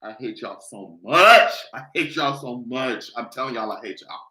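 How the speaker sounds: low and fading, wheezing with laughter; breathless laughing. Real, not acted. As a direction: barely get it out through the giggles. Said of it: "now I'm gonna start crying".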